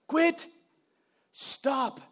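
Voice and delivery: sharp command. Retold or imitated. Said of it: "you turn around and say".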